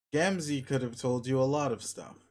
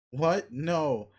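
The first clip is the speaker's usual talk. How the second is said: surprised; 2 semitones higher, 4 dB louder than usual. Real, not acted. Shocked at caps lock tip.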